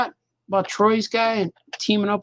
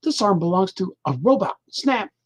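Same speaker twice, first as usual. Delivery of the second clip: dramatic reveal; 2 semitones higher than usual. Shown as a demonstration. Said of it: "gonna read this to you now".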